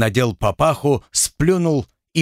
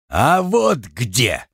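hoarse growl; much slower than usual. Acted. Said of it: "прохрипел Александр".

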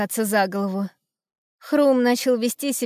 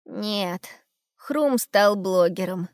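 gloomy; 2 semitones lower, much slower than usual. Acted. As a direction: say it with a weary sigh. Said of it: "уныло проговорил Ум".

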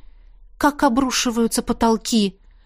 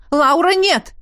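mother shouting; 5 semitones higher, 3 dB louder than usual. A narrator's reading. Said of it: "кричит мама".

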